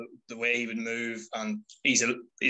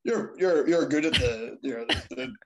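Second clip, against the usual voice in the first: halting, tongue-tied fan stammer; starstruck stammer; 3 dB louder, slower than usual. Retold or imitated. Fan meeting her wrestling hero, nervous starstruck stammering. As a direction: stumble over every word in awe. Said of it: "I was like".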